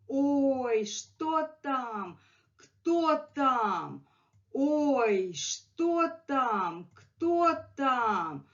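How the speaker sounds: scared cat voice. Acted. Teacher voicing her scared cat, high and frightened. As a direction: squeak out the fright like a startled cat. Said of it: "And he was really scared. ... He's like".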